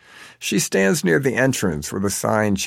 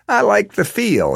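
odd husband voice; 4 dB louder than usual. A narrator's reading. Husband explains his odd shirt.

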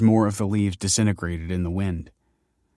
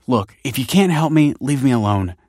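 raised, irritated snap; testy and louder; snapping; 5 semitones higher, 6 dB louder than usual. A narrator's reading. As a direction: snap at someone to back off. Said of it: "snapped Michael".

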